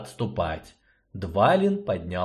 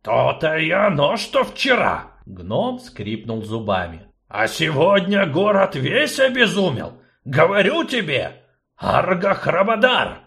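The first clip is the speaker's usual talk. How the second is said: louder, heated gnome; worked-up gnome, loud; 6 semitones higher, 4 dB louder than usual. Acted. Gnome to sorceress, heated swearing. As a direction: gnome cursing in frustration.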